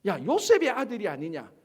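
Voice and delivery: loud scoffing challenge, imitating a heckler; mocking doubt. Townspeople doubting Joseph's son, loudly mocking. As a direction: call it out like a sceptical local. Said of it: "비꼬기 시작하고 의심하기 시작하고".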